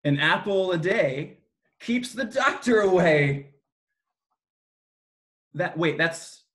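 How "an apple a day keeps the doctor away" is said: slow, sing-song nursery rhyme; reciting a rhyme. Shown as a demonstration. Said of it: "Do you know what the rhyme".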